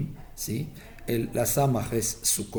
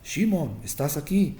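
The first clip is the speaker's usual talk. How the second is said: dying father calling; 4 semitones higher than usual. Retold or imitated. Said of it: "llamando en sus nombres".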